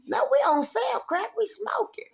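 high, then whispered; confiding aside. Real, not acted. Telling friends a secret about smoking, hushed aside. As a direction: let them in on a secret.

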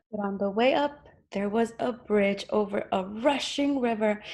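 measured storybook narration; story reading to children. A narrator's reading. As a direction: read it out clearly to small children.

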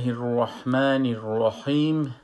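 slow, drawn-out recited basmala; Quranic recitation. Real, not acted. Teacher opens the tajweed lesson, slow reverent recitation. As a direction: recite it slowly with lengthened vowels.

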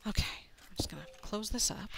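quick hushed whisper; fast whisper. Real, not acted. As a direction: whisper it as you hurry. Sneaking while tidying.

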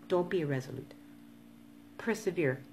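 talking around something in mouth; mouth full. Real, not acted. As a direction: speak with something in your mouth. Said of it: "I have something in my mouth".

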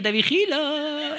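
lento y socarrón, vigilando al otro; te vigilo amenazante. Retold or imitated. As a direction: advertencia lenta y burlona. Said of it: "y te decía". (advertencia lenta y socarrona)

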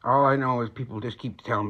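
talking around a cigarette; cigarette at lips. Real, not acted. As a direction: lips partly blocked by cigarette. Seen 0: hand holds cigarette at mouth until 1.6, then moves away.

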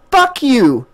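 Jessica curses Stephen as she drives off; angry. A narrator's reading. Angry yell. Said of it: "she said".

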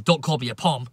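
mock angry. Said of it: "An English guy saying".

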